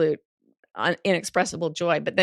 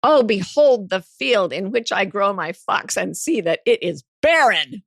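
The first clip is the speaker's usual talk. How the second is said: mock grand proclamation; 2 semitones higher, 6 dB louder than usual. Grand joke about giving no fucks.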